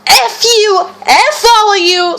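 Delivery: a hammed-up angry retort; imitating the angry woman. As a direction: spit it out like the irate customer. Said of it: "The woman just goes".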